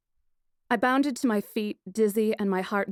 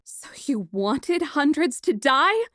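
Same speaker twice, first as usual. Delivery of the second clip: higher, louder, slowed outrage; furious disbelief; 7 semitones higher, 5 dB louder, slower than usual. Acted. Princess confronting the killer, furious. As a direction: spit each word at him. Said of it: "That made me furious".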